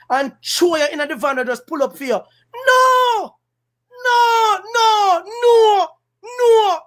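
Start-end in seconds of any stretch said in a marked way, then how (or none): 2.2-6.8 a real anguished outcry, pitched high; anguished cry. Real, not acted. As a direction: wail it out in anguish. Outcry about killings.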